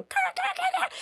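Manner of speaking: high-pitched imitation crow caws; crow cawing. Storyteller imitating crows at the cemetery, cawing high. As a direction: mimic squawking crows far above your normal voice. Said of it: "then the crows start going".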